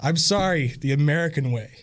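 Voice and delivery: firmer American-style apology; plainly declared American sorry. Shown as a demonstration. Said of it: "Give me an American sorry".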